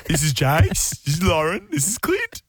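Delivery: put-on slow kid voice radio intro; drawled mock station ident. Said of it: "This is me at Nova".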